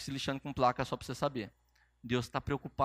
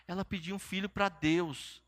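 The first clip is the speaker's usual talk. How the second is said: lightly voiced gentle divine voice; sweet, gentle voice. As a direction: say it sweetly and unhurriedly, as a tender message. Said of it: "a voz dele é doce, é suave".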